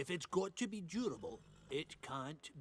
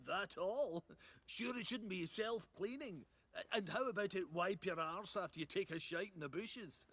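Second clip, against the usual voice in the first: higher, lilting sarcastic questions between laughs; mocking sarcasm; 4 semitones higher than usual. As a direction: scoff at the customer with amused disbelief. Smith mocks customer's demanding order.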